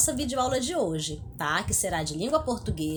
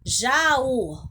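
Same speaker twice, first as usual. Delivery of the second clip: Jaú with the Ú split from the A and raised in pitch; stressed, separated U; 2 semitones higher, 4 dB louder than usual. Shown as a demonstration. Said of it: "o U está separado do A".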